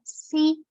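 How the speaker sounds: SI as one held syllable; syllable alone. Shown as a demonstration. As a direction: say SI in one single push of voice. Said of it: "si va junto". (sílaba aislada, SI en una sola emisión)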